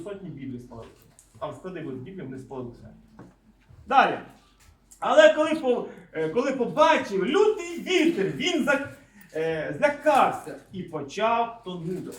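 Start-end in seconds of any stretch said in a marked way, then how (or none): 5.0-12.1 loud, deliberate Bible reading; scripture reading. Acted. Preacher reading of a man afraid in the wind, emphatic reading. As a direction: read it out emphatically, stopping and restarting. Reads scripture aloud to congregation.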